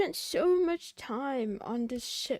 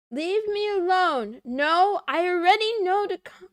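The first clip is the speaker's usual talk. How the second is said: mock outburst; 3 semitones higher, 9 dB louder than usual.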